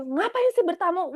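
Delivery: irritated, a touch scolding; annoyed question. Retold or imitated. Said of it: "aku tuh marah banget".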